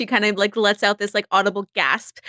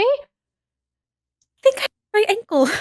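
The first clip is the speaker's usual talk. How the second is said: much higher, slow, hammed-up helpless voice; feigned injured lady; 11 semitones higher, much slower than usual. Izzy to Benny, faking a rolled ankle, hammed-up high helpless voice. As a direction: play the fragile lady who is faking it.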